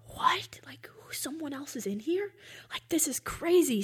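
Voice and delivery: startled disbelief. Retold or imitated. Dreamer hears someone else in the dark cabin, startled.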